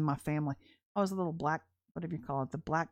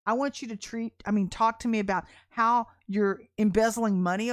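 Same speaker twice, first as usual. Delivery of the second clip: voice of God building; 2 semitones higher, 5 dB louder than usual. Pretend. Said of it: "says the Lord".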